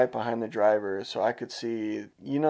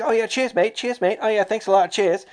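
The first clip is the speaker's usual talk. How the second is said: sarcastic; 11 semitones higher, 6 dB louder than usual. Retold or imitated. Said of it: "He's like".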